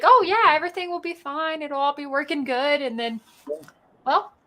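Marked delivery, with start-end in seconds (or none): 0.0-2.8 a higher, breezy, carefree "oh yeah"; mock your own earlier overconfidence, lightly; naive confidence. Host recalling his easy optimism about the tech, lightly mocking. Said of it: "I was like".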